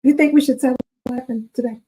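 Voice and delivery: excited teasing. Real, not acted. Teasing the audience with news.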